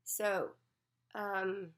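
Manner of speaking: odd voice from a cold; helium voice. Real, not acted. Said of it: "I sound like I'm on helium".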